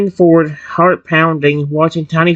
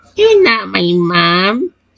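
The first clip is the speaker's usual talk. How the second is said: slightly raspy, thin, squeaky voice, higher pitch; 4 semitones higher than usual. Reading a story where a newly hatched creature speaks: slight raspy high-pitched voice. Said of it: "in a slight, raspy, high-pitched voice".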